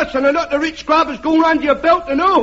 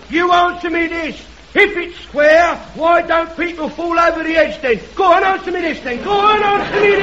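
mock-indignant shout, picking up speed; heckler shouting. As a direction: shout him down, fast and rough. Heckler shouting back at crank.

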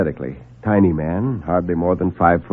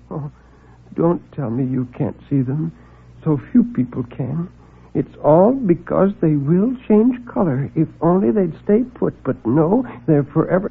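timid little man; 7 semitones higher than usual. Acted. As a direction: mumble it apologetically.

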